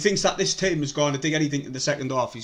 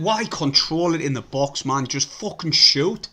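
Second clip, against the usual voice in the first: frustrated; slower than usual. Real, not acted. Fan urging players to shoot.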